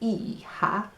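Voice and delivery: high drawn-out call across the yard; a cowboy hollering for his girl at teatime; cowboy calling his daughter. Acted. Cowboy calls his daughter in for tea, a high hollered call. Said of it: "A cowboy might go out and call his daughter for tea".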